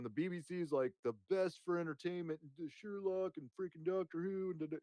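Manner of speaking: impression of his past self. Streamer mocking his own old podcast praise, gushing fanboy voice. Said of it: "impression of myself".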